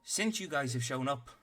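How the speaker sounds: a tiny officer barking orders at the party; stern little captain. Acted.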